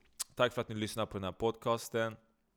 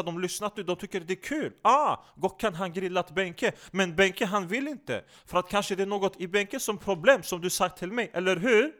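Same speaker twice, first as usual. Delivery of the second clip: insinuating, animated figure in broken Swedish; needling comic character; 7 semitones higher, 5 dB louder than usual. Acted. Character hinting his partner is upset, teasing and insistent. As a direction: needle him, building to an insistent tag question.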